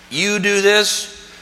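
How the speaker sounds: slow, drawn-out mock stern teacher; stern legalist. Preacher mocking the teachers of the law, slow mock stern. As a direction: drag it out like a rigid rule-keeper.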